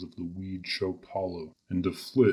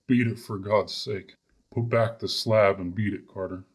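piteous cry; 4 dB louder than usual. Acted. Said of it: "a piteous cry from Warren".

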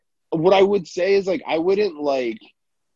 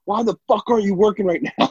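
mock angry yell; 5 semitones higher than usual. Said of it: "all he does is scream at you".

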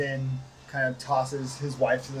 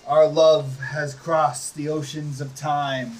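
woo her like a gothic lord; louder romantic vampire lord; 6 dB louder than usual. Acted. Strahd woos Tatiana.

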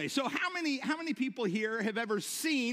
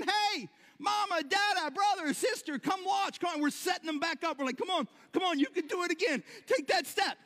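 excited calling out; 7 semitones higher than usual. Pretend. Parent calling the family and urging the child, high excited calling. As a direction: coax the child on, thrilled. We're calling mama over saying.

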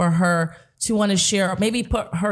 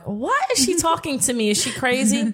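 high-pitched mock disbelief; baffled inner voice; 5 semitones higher than usual. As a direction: replay your bewildered thought, jumping up in pitch. Retold baffled reaction to a stranger.

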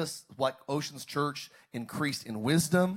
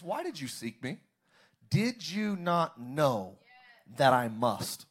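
calm; slower than usual. Acted. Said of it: "Jesus responds very calmly".

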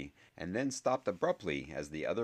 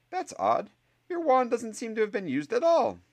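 much higher, dry and reproachful; a sceptical teacher, higher and clipped; stern professor; 9 dB louder than usual. Acted. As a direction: scold the boy with crisp authority. Professor Sprout voiced by narrator.

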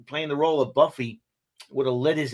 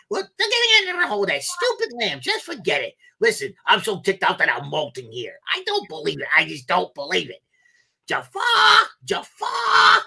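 Iago impression. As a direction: rant like an outraged cartoon parrot. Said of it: "I'll do my Iago impression".

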